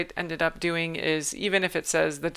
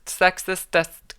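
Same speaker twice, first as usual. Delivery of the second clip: sexistest drawn out slowly and a bit louder; slow deliberate sexistest; 4 dB louder, slower than usual. Shown as a demonstration. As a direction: sound out sexistest carefully, syllable by syllable. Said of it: "you don't ever actually have to say it".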